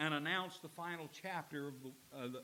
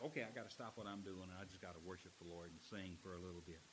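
fast, softer, lower eager aside; eager quote; 9 semitones lower, 9 dB quieter, faster than usual. Retold or imitated. Preacher voices worshipper stopping to sing, fast eager aside. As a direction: rush it like you can't wait to sing.

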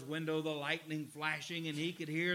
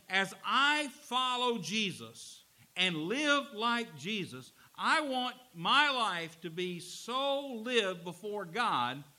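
emphatic preaching; 5 dB louder than usual. Real, not acted. Preacher paraphrasing Paul, exhorting.

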